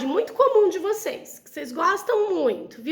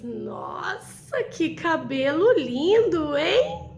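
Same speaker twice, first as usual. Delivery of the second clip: ironic; much slower than usual. Shown as a demonstration. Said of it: "solto aquela ironia e falo assim". (elogio irônico e debochado)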